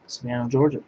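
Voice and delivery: ordinary talk, nothing marked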